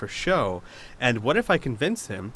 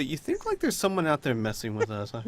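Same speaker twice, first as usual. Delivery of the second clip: conspiratorial character voice; 4 dB quieter, faster than usual. Pretend. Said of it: "they say".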